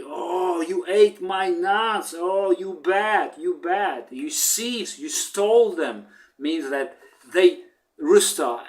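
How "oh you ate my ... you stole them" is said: higher, scolding duck voice; angry duck. Retold or imitated. Duck scolding chicken and rooster, mildly angry and higher. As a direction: scold them for eating the nuts. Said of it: "duck was very angry".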